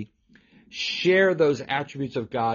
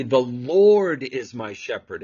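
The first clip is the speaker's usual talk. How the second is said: "Lord" drawn out and louder; stress on Lord; 3 dB louder than usual. Shown as a demonstration. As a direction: lean long on the word "Lord". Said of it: "notice the emphasis on the shepherd".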